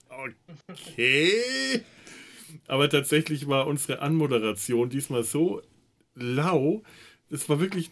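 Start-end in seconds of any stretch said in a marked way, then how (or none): 0.1-1.8 flat resigned okay. Retold or imitated. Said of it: "Ich dachte".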